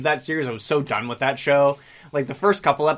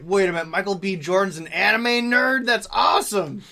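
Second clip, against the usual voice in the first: excited fans; 5 semitones higher than usual. Retold or imitated. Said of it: "They're like".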